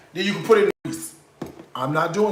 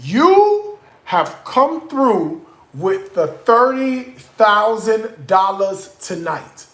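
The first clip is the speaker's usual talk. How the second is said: drawn-out gushing praise; slower than usual. Real, not acted. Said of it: "Bitch, when I tell you".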